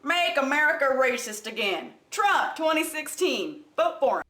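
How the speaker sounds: lightly put-on Southern campaign pitch; mock Southern accent. Commentator offering Trump a better slogan, mock Southern accent. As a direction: sloganeer with a hint of Southern twang. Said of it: "why do you use a Southern accent".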